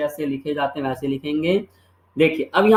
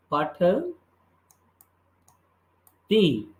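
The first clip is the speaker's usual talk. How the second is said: drawn-out word; much slower than usual. Shown as a demonstration. Teacher drags out the new form.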